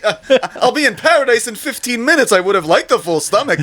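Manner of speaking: high Jewish comedian voice; old-school Jewish comedian, laughing; Jewish comic accent. Pretend. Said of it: "an isis style comedian".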